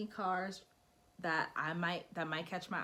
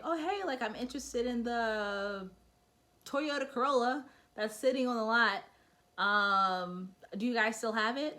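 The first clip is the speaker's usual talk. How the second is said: casual, bored phone inquiry; breezy offhand call to the dealer; bad way to call; 4 semitones higher, 4 dB louder than usual. Buyer calling the dealer too casually, lightly voiced offhand ask. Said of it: "don't just call them like".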